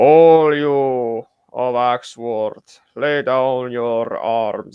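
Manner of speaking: very slow, enchanted, magically enhanced voice. Raising an heirloom axe above his head, addressing all of Axworth, magically enhanced voice. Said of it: "speak in a magically enhanced voice".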